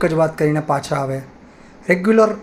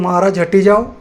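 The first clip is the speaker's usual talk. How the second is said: a sudden louder call to clear the way; calling out a warning; 3 semitones higher, 6 dB louder than usual. Acted. Cowherd boy calls out to the priest to step aside, loud warning. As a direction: shout the warning ahead, not angry.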